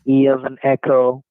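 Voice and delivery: spelling with a phonetic alphabet; letter by letter like a call-center agent; dictating. Shown as a demonstration. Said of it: "now read it back to me".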